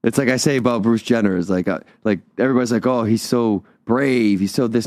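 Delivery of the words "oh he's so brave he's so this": gushing imitation with a drawn-out "brave"; mock admiration. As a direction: parrot the praise mockingly, dragging out the key word. Mocks others' praise of a celebrity.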